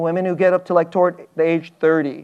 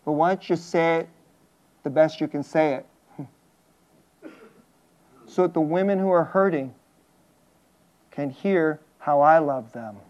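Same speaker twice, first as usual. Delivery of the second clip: soft, low, gentle instruction; gently entrust the message, voice lowered; God's tender charge; 4 semitones lower, 7 dB quieter than usual. Acted. God to the preacher about hurting women, soft low tenderness. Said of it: "God will say".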